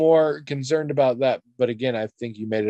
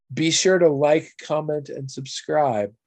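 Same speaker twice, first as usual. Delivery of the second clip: mock YouTuber outro; 3 semitones higher, slower than usual. Podcast host mocking the YouTube sign-off, slow and deliberate. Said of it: "that's what you say".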